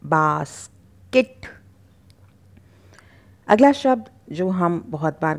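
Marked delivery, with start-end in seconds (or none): 0.0-1.3 slow बास्केट with a short, light ending; teacher modeling बास्केट slowly; slow model word. Shown as a demonstration. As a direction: draw out बास्केट for the class to copy. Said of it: "बास्केट नहीं बोल के बास्केट".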